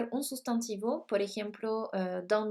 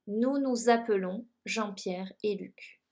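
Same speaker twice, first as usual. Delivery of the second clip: French sentence read slowly and clearly; slow, careful classroom French; slow model answer. Shown as a demonstration. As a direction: say it slowly, word by word, for students. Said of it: "acá conjugado en nosotros".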